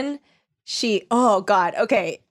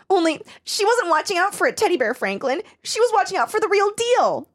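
mock ominous; 9 semitones higher than usual. A narrator's reading. Reading Becky's inner thought as an overblown twist. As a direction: lift it up like a twist.

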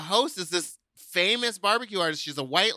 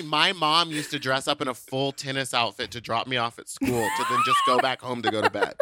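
laughing through the story; words bubbling with laughter; 4 semitones lower than usual. Real, not acted. Laughing while telling friends about her mom.

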